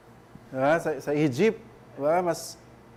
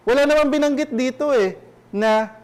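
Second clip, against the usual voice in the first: emphatic exclaim; 8 semitones higher, 6 dB louder than usual. Acted. Emphatic point to congregation.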